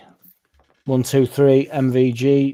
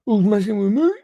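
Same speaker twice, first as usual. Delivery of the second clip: mock alarmed yelp; 10 semitones higher, 3 dB louder than usual. Repeat, pitched up.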